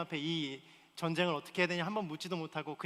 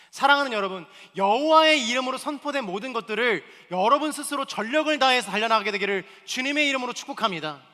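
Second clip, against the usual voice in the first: louder pulpit benediction; loud blessing; 6 semitones higher, 10 dB louder than usual. Acted. Pastor blessing the congregation, loud preaching voice. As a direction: proclaim the blessing over the room.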